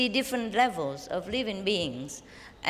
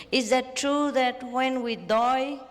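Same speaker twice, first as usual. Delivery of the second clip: slowed-down question broken by laughter; laughing through it; 4 semitones higher, slower than usual. Real, not acted. Master rereads the disciple's question, laughing. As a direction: try to read it but keep cracking up.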